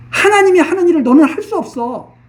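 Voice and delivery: stern preacher's emphatic repeat; forceful rebuke. Shown as a demonstration. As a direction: hammer the repeat home.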